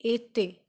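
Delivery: "été" as ay-tay; both vowels of "été" as a clear ay; French pronunciation. Shown as a demonstration. Teacher showing learners the accent aigu, "été" said ay-tay. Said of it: "so we pronounce it".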